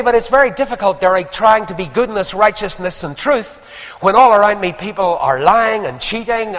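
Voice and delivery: high, loud mock complaint; heated objection, pitched high throughout; protesting objection. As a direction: voice a doubter protesting at full volume. Voicing a listener's objection.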